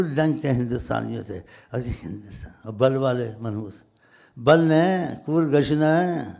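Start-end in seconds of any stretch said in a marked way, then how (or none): 4.4-6.3 loud, drawn-out imitation of Indian dialect; Indian dialect mimicry. Speaker teasing Indians about their speech, exaggerated Indian dialect. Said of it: "ایسے بولتے ہیں".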